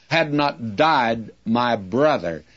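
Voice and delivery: slow, weighted "Had not died", then "my brother" falling away; emphasis on "Had not died". Shown as a demonstration. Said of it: "that which is important is put first".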